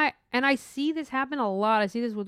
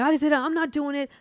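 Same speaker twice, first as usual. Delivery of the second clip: higher-pitched mock refusal; imitating upset coworker; 6 semitones higher, 4 dB louder than usual. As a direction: put on an exasperated refusal. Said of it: "She got upset".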